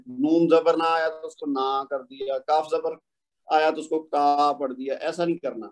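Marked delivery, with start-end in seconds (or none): 1.5-1.8 نا held long as "naaa"; lengthened vowel. Shown as a demonstration. Teacher imitates learners' common mistake, نا with a long a. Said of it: "اس کو لمبا کر دیتے ہیں". 4.0-4.5 کا held long as "kaaa"; lengthened vowel. Shown as a demonstration. Teacher imitates learners' common mistake, کا with a long a. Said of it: "اس کو لمبا کر دیتے ہیں".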